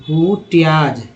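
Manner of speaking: हुट्याज said slowly, syllable by syllable; slow model reading. Shown as a demonstration. Teacher repeating the word for learners, slowly. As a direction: drag out हुट्याज so students catch each sound.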